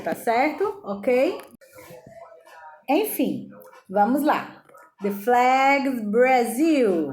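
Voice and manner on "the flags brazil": slow, drawn-out Brazil for the class; model word for repeating. Shown as a demonstration. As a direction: stretch out Brazil slowly so they can copy it. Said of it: "Eu vou falar e vocês vão repetir".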